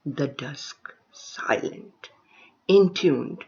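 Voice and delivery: lifted openings, then falling phrase ends; poetry recitation. Acted. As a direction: recite in measured fragments with pauses between images. Recites her second poem.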